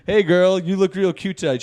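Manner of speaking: lightly voiced guy hitting on a girl; catcaller.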